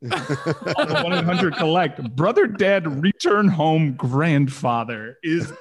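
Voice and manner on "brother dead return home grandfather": mock telegram readout, stretched last word; cut and dry. Quoting the costly collect telegram, cut and dry. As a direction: recite it as a blunt telegram. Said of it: "it was just so cut and dry".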